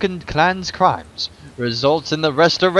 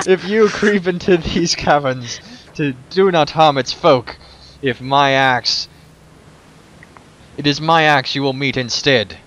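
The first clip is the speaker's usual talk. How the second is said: a hint of a stern dwarf warrior; threatening dwarf. Gimli threatens intruders.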